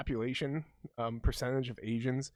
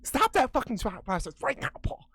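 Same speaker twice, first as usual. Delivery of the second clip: playful shout; 9 semitones higher than usual. Acted. Telling friend to stop thinking.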